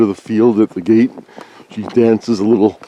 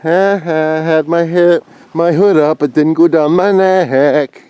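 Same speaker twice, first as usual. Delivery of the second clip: higher, laughing, a bit louder; laughing relief; 7 semitones higher, 4 dB louder, slower than usual. Real, not acted. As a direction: chuckle through it, pleased. Laughing about the hood.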